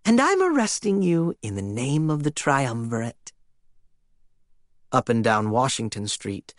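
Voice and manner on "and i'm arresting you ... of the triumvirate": gut voice of a monster. Acted. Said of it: "Its voice came from its gut area".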